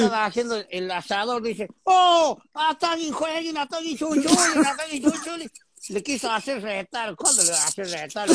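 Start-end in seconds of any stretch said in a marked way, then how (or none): 1.8-5.5 hammed-up fake Italian yelling; mock Italian cook. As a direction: cry out like a panicked Italian cook in broken Spanish. Acted Italian cook again.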